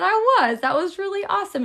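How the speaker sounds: high, loud praise; a mom's delighted praise; proud mom. Retold or imitated. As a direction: cheer her on. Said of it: "I said".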